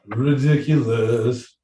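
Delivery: RIDICULOUS stretched slowly over every syllable; drawn-out exclamation. Acted. Host reacts to the silly peacock message, slow, drawn-out "Ridiculous". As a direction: draw out "Ridiculous" with relish. Same word repeated, drawn out.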